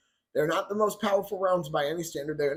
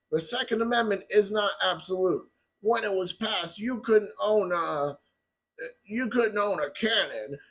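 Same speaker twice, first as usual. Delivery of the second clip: mock stumbling Biden. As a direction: stumble over the words on purpose, like the old man does. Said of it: "I did that on purpose".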